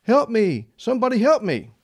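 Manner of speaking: high, pleading mock holler; mock yell for help. Fallen man still calling up from the bush, high mock yell. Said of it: "continued to yell at the top of his lungs".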